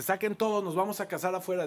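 high opening, easing a little; retold brisk command to the staff; announcing orders. Groom tells waiters the wedding moves outside, announcing orders.

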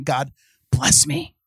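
slow, whiny plea; mock pleading. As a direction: beg from the cage. Mocking caged believer's plea.

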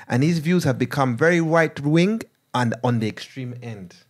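put-on Ugandan accent. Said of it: "I'm gonna read it in Ugandan accent".

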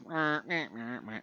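flat robotic meh sounds. Retold or imitated. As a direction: imitate a stiff robot voice. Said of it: "He's got to talk in a robot voice".

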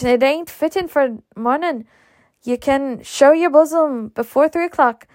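Mammy scolding. Acted. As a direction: fuss and warn like an old nurse. Mammy scolding about the dress.

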